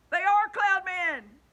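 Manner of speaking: loud, high, slow cry of alarm; shocked shout. A narrator's reading. Bugs on the peach spotting cloud men, shocked shout. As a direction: gasp it out in shock.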